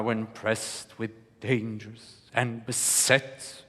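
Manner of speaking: slow, low, even monotone; tense monotone. Shown as a demonstration. Coach showing the Portia monotone, slow and tense. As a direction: hold the tension flat and steady. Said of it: "keeps the tension up".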